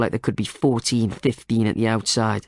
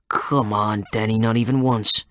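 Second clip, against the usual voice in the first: chiding. Acted. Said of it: "chided Bradshaw".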